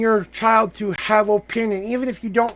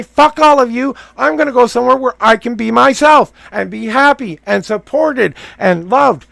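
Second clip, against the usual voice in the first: louder defiant quote of what he could say; mock defiant outburst; 5 dB louder than usual. Coach voicing what the client could tell everyone, louder and defiant. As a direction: fling it off like breaking free. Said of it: "Why can't you just say".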